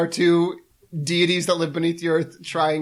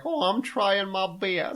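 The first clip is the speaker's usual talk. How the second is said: King George impression; 3 semitones higher, 5 dB quieter, slower than usual. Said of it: "That's my impression of King George the Third".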